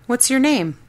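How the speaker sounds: put-on eager child asking a stranger.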